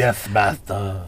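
slow, soft servile lisp; Igor voice. Retold or imitated. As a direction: grovel like a hunchbacked servant. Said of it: "he kinda has the, a little bit".

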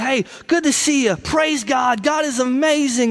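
sham-cheerful praise; customer service church voice. Acted. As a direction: greet churchgoers with fake zeal. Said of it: "our customer service church voice".

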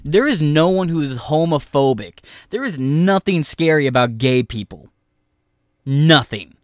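loud ranting yell at the clip. Real, not acted. Streamer yelling back at protest footage, loud. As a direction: shout it down like an angry streamer.

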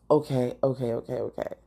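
self-calming mutter. Retold or imitated. Vlogger trying to cope with the stuck cap, self-soothing. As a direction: talk yourself down under your breath. Retold attempt to steady herself.

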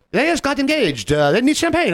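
high, excited woman's voice; excited retelling. Retold or imitated. Woman announcing couple's engagement at table.

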